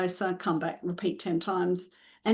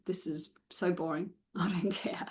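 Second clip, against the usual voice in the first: softer, bored dog voice with a laugh; 7 dB quieter than usual. Pretend. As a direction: speak for the dog that couldn't care less. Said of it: "want Vinny to be going".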